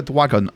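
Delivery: put-on "Dwagon" with a babyish w for the r; mispronounced dragon. Shown as a demonstration. Rejecting the wrong title, "Dwagon" said with a w sound. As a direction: swap the r of "Dwagon" for a w. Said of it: "No, not Yakuza Like a Dwagon".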